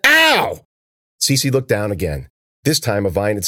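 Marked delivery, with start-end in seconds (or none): 0.1-0.7 sudden high yelp of pain; sharp ow. A narrator's reading. Cece yelping as the thorns stab her.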